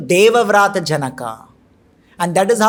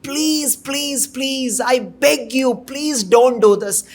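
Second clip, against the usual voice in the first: begging; 4 semitones higher, slower than usual. Acted. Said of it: "He's begging".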